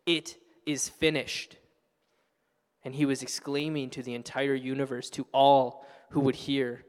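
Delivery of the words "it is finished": slow, measured declaration of victory; slow exclamation. Retold or imitated. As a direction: proclaim each word slowly like a victory cry. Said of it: "He shouted, he exclaimed".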